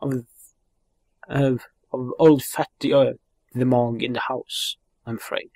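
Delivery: a lightly voiced chatty Welsh fairy; cheeky sidekick voice. Sidekick hailing the boy, cheeky and chatty. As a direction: hail the boy like an old mate.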